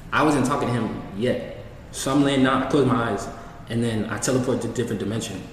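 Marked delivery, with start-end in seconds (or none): 2.6-5.4 matter-of-fact, everyday telling; casually understated delivery. Real, not acted. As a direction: say it offhand, as if it were routine. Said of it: "he said that's so casual".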